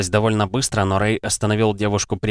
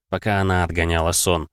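ordinary talk

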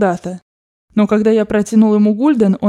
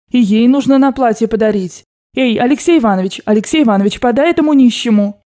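lightly voiced grandmother; 2 semitones higher than usual. Grandmother ordering servants to give money, lightly voiced. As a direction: hand out orders like a rich old grandmother.

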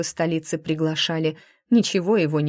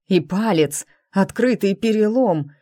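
loud, higher pained exclamation; exclaiming in pain; 3 semitones higher, 4 dB louder than usual. A narrator's reading. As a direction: cry out at the wound. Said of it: "воскликнул".

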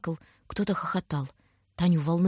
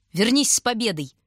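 raised-pitch call after him; farewell shout; 4 semitones higher, 4 dB louder than usual. A narrator's reading. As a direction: call it out over a crowd. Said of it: "Женщины кричали, звали по именам".

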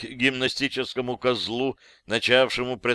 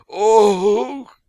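sudden high loud "Ох!"; jolted upward, blurting out a high, loud cry; startled gasp; 10 semitones higher, 9 dB louder than usual. Acted. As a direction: caught off guard, a sharp yelp. Hero yanked up by rope.

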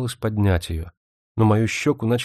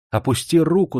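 higher, sharp cry of command; shouted order; 6 semitones higher, 3 dB louder than usual. A narrator's reading. Older sister demands to see her sister's face, shouting. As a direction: snap out the order. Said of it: "закричала она".

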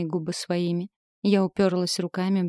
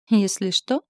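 smirking echo; 4 dB louder than usual. Acted. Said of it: "ухмыльнулся черноглазый наглец".

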